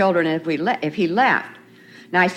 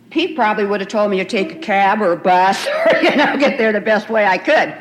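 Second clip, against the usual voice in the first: laughing; 3 dB louder than usual. Real, not acted. Laughing about husband back then.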